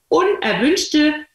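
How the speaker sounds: very slow "unerwünschte", every syllable held; drawn-out key word. Shown as a demonstration. Coach stressing his key word to listeners, very slowly. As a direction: stretch "unerwünschte" out to drive it home. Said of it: "repeated key word slowly".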